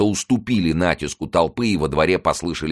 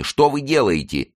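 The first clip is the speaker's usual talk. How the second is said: high, louder, slow cry of panic; panicked exclaim; 10 semitones higher, 4 dB louder than usual. A narrator's reading. Mazarin begs the queen to stop, high panicked cry. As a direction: plead with her in horror. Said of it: "воскликнул Мазарини".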